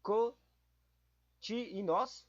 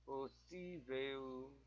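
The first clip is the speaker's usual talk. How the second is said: "Possível" drawn out slowly and much softer, falling; quiet slow recheck; 4 semitones lower, 11 dB quieter, much slower than usual. Shown as a demonstration. Rechecking quiz word "Possível", quiet and slow. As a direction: murmur "Possível" slowly to yourself. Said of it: "Deixa eu tentar ver o possível".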